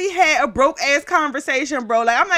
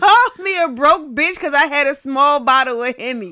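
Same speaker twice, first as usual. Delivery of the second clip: stifled giggles. Real, not acted. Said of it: "I'm trying not to laugh at your laugh".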